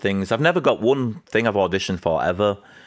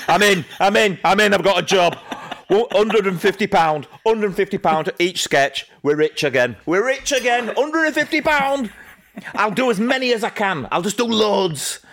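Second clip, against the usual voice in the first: retold elation; 12 semitones higher than usual. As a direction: gush down the phone, far above your usual pitch. Retold elated phone call to Jill.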